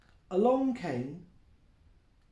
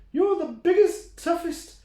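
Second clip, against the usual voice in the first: high, loud praise; excited little goat; 11 semitones higher, 8 dB louder than usual. Acted. Billy the Kid praises his dad, very high. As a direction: gush over your dad, very high.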